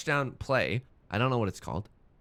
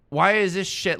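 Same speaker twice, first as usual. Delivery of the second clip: ordinary talk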